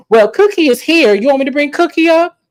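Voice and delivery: high, loud dare; loud challenge. Retold or imitated. Kiana loudly daring Stacey to face Cookie. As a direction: call out the threat boldly.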